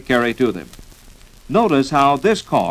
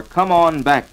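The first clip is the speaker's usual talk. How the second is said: duck call honks; 3 semitones higher, 3 dB louder, slower than usual. Shown as a demonstration. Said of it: "next call to use".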